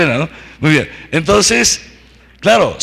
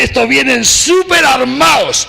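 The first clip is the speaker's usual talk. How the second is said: alarmed sentry; 5 semitones higher than usual. Acted. Scared sentinels of Jericho speaking.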